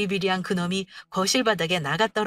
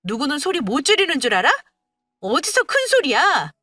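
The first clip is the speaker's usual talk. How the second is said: raised-voice retort, building higher; angry shouting; 5 semitones higher, 6 dB louder than usual. Acted. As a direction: shout back to outdo him. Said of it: "내가 이렇게 소리 지르면서 말하니까". (지지 않고 맞받아치는 고함)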